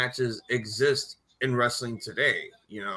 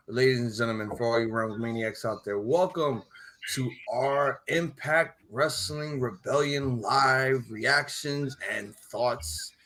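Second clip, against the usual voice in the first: ringmaster; slower than usual. Acted. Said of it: "Let me just do my gimmick".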